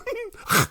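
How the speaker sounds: squeaky high laugh; high giggle. Real, not acted. Laughs at own joke.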